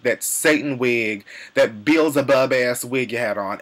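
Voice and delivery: loud preachy tirade at a singer; mock sermon rant. Comedian roasting a singer from the pulpit, loud and preachy. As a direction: call her out like a fiery preacher.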